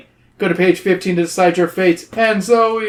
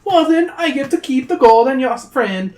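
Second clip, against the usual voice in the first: sly troll; 9 semitones higher, 4 dB louder than usual. Acted. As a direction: tempt them like a greedy little troll.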